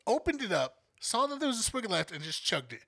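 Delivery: scolding the roommate for chugging a random bottle; exasperated. Retold or imitated. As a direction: rant at the roommate in disbelief. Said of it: "I was like".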